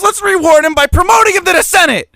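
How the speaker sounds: high mocking sarcasm; sarcastic. Real, not acted. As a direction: say it with heavy sarcasm. Sarcastic about corrupt politician.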